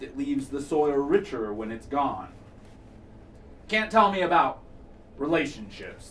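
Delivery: measured poem recital with pauses between phrases; spoken-word delivery, lines falling away at the ends; poetry reading. Acted. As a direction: read the poem aloud, letting each line settle. Reads a poem to audience.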